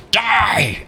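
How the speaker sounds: high short battle cry; fish warrior yell. Acted. Kuo-toa whip lunging at Niles, high yell. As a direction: snap out a high mock war cry. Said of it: "He's like".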